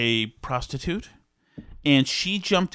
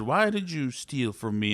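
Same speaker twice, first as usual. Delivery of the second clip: slow, softer interrogation; quiet mock menace; imitated boss; 2 semitones lower, 6 dB quieter, slower than usual. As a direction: ask it slowly, like a crime boss in control. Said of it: "this Chinese guy in a white suit said".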